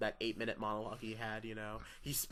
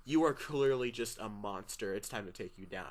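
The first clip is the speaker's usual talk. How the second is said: disappointed quote; 2 semitones lower than usual. Retold or imitated. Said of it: "disappointed in someone's face".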